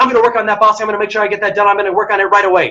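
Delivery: quick-fire, urgent, rapid rattled-off delivery. Demonstrating how to answer a boss with urgency, talking really quickly. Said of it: "someone's talking really quickly and you're saying".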